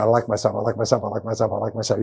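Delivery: softly repeated to yourself; quiet self-talk. Shown as a demonstration. Speaker demonstrating morning self-talk, softly repeated. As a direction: murmur it over and over on waking. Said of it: "get up in the morning saying".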